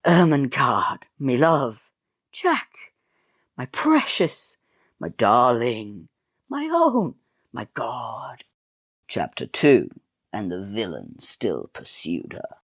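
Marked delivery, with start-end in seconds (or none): 0.1-8.4 gushing high lovesick cries; hammy lovers cooing; swooning lovers. Acted. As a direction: melodramatic endearments, pitched way up. Lovers exchange endearments.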